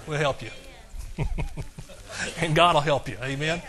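ordinary delivery

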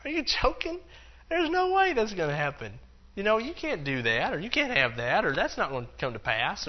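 high, incredulous scoffing voice; mocking doubter. A doubter laughing at someone's faith, high and scoffing. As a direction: sneer at the idea like a doubter. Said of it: "someone's gonna just laugh and say".

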